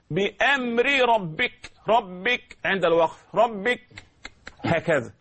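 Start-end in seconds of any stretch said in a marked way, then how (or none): 0.1-3.8 slow ربك with a clear ر; pause form. Shown as a demonstration. Teacher shows ربك in pause, slow. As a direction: stop on ربك. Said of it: "هكذا تقرأ".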